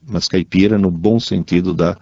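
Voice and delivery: ordinary delivery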